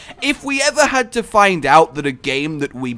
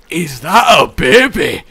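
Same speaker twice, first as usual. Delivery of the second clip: mock Fat Bastard shout; 6 dB louder than usual. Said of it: "go full fat bastard".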